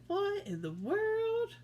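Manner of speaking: troll tossed off the bridge, shocked and high; startled troll. Acted. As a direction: squawk it like a troll flung through the air. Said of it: "I bet he's like".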